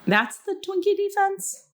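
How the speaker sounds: high incredulous question; surprised. Real, not acted. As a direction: ask it in disbelief.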